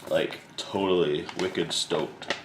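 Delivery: slow, drawled surfer dude. Pretend. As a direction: stretch it out like a laid-back surfer. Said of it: "Talking like a surfer".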